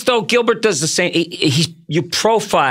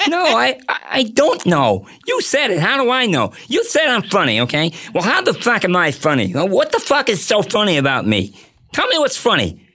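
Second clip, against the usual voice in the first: talk-show host in a mock mobster tirade; higher, indignant comic impersonation; Jay Leno; 4 semitones higher than usual. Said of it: "do the range of Leno".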